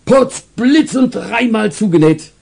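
high, startled exclamation; stall owner's outcry. Acted. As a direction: cry out in comic shock. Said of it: "schrie er".

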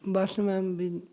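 halting and subdued, holding back crying; close to tears. Real, not acted. Guest waving off questions about his heartbreak, choked up. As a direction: break off as if unable to explain, near tears. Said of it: "ਨਹੀਂ, ਤੁਸੀਂ ਰੋ ਰਹੇ ਹੋ".

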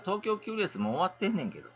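sudden rush of excitement; excited. Real, not acted. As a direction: blurt the news out in excitement. Repeats the news, now excited.

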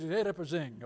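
"Reposinho" with a Portuguese nasal "-inho" ending; plain Portuguese pronunciation. Shown as a demonstration. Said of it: "In Portuguese".

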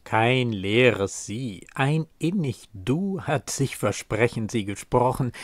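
getragener, sorgfältig betonter Gedichtvortrag. Acted. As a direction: ein Liebesgedicht mit Pausen rezitieren. Recites a poem. (feierlich rezitiert)

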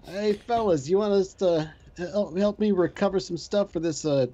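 bad Boston accent, lightly done. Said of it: "my horrible Boston accent".

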